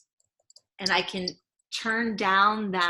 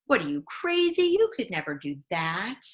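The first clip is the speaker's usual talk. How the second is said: scoffing inner critic. Retold or imitated. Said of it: "that voice of".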